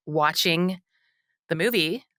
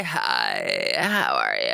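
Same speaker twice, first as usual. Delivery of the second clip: low creaky fry voice; vocal fry; much slower than usual. Shown as a demonstration. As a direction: sink into a deep creak. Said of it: "'Cause I'm doing vocal fry".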